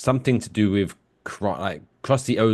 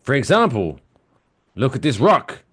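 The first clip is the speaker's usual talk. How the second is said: Lisa; 3 semitones higher, 5 dB louder than usual. Retold or imitated. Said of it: "Lisa says to Homer".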